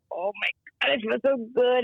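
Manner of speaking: lightly voiced daughter, relieved; daughter's relief. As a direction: let out a stretched sigh of relief as the daughter. Daughter voiced after session.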